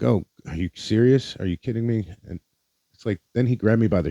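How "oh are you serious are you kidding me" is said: higher-pitched, incredulous questioning; retold disbelief. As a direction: replay your own stunned protest.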